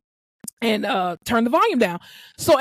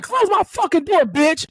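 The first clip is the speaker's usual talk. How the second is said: retold angry order; 7 semitones higher than usual. Patient ordering her out.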